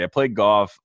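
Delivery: earnest and matter-of-fact; all sincerity. Real, not acted. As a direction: say it straight, in earnest. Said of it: "I say this with all sincerity".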